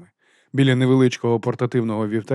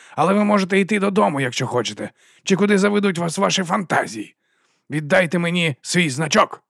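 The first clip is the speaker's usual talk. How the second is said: haughty dismissal; 7 semitones higher than usual. A narrator's reading. Vons taking Vimes's badge, high haughty tone. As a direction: order him off.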